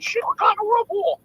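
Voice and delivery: high, loud parrot screech; squawking parrot. Acted. Parrot being swung around in a joke, high loud squawk. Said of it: "and the parrot's like".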